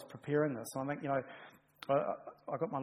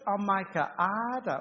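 Pharaoh's defiance; 6 semitones higher, 6 dB louder, slower than usual. Retold or imitated. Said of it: "and he says".

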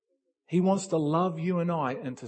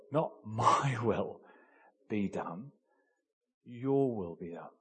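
corrected quote; 6 semitones lower, 3 dB quieter, slower than usual. Shown as a demonstration.

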